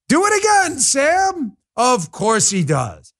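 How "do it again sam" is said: lightly voiced, high, shouted mock Biden; a hint of a gleeful Biden, hammed-up; mock Biden quote. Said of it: "So Biden says what?".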